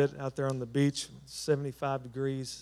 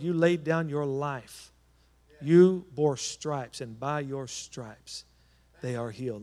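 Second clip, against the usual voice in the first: fervent healing prayer, building then fading; urgent prayer over the sick. Acted. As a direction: declare healing over them with conviction. Prays over raised hands for healing.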